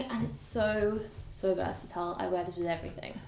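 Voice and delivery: slightly winded, catching breath. Real, not acted. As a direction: talk while a little out of breath. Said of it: "I'm actually a little bit out of breath now".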